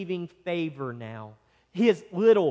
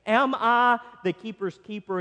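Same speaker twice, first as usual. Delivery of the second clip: bitter, higher-pitched mock question; sarcastic; 4 semitones higher than usual. Preacher voicing Cain talking back to God, sarcastic and bitter. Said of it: "You hear the sarcasm and the bitterness".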